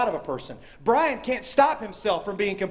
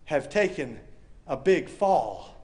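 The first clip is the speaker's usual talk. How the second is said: Woody; 3 semitones lower, much slower than usual. Retold or imitated. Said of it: "Woody says a great line".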